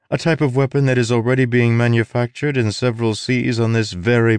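haughty, disdainful sorceress; scornful sorceress. Acted. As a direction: talk down to the girl. Sorceress mocks Tress.

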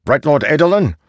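airy, high knight's voice; high spirit voice. Acted. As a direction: speak high and hollow from within a helm. Spirit knight speaking from helm.

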